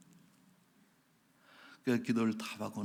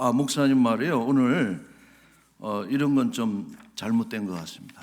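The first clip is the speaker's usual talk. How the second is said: louder congregant grumbling at the pastor; acted complaint; 8 dB louder than usual. Congregant barging into the pastor's office, acted complaint. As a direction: voice a mild confrontational complaint, pushed louder at first.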